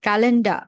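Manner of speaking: "ক্যালেন্ডা" ending in an open A; final R as A. Shown as a demonstration. Teacher sorting words for student, final R said as A. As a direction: finish "ক্যালেন্ডা" on a vowel, no R. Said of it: "লাস্টে কি আর মতো উচ্চারণ".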